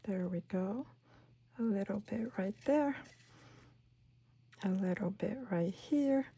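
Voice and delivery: whispered explanation. Real, not acted. Crafter explaining her trimming, whispered. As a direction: confide it in a whisper. Aside while placing.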